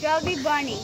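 cheeks stuffed full. Real, not acted. Mouth stuffed with marshmallows.

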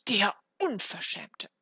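loud, slow, outraged verdict; indignant cry. A narrator's reading. Frau Hanne denounces him to her neighbours, indignant cry. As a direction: spit out the insult slowly and loudly. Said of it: "rief Frau Hanne ihrer Nachbarin zu".

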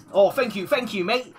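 lightly teasing British imitation; playful mock British thanks; mock British accent. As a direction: put on a bit of British. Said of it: "you're British now?".

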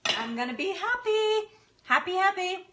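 sing-song glee. Real, not acted. To viewers about her week of lunches, gleeful sing-song. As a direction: chirp it like a happy little tune.

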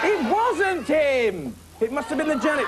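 high, very slow puppet cry; a small puppet insisting on innocence; high drawn-out puppet voice; squeaky puppet protest. Acted. Puppet defends Sooty.

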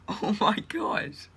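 slow, awed whisper. Real, not acted. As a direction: whisper in disbelief. Whispered disbelief.

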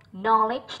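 knowledge, first vowel open as in "not"; short O in knowledge. Shown as a demonstration. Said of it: "là âm O". (đọc knowledge với âm o ngắn)

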